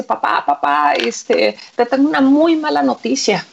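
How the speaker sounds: understated mock distress, little change of voice; mildly acted desperation. Son brings his father very bad news, mildly desperate. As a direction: break bad news with a touch of urgency. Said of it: "llega desesperado, le dice".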